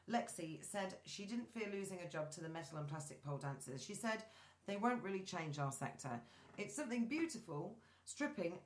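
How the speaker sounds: reading a light news story aloud; measured read-aloud delivery of an article. Real, not acted.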